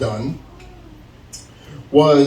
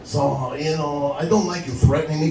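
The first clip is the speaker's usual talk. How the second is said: bored drug dealer; 2 semitones lower than usual. Retold or imitated. Manager objects to customer's threat, like a bored drug dealer. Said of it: "he's a bored drug dealer".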